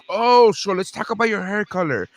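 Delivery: high-pitched, sing-out pretend small talk; hammed-up evasive chit-chat; mock chatty doctor. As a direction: play a doctor dodging the subject, voice way up. Mocks a doctor avoiding the subject.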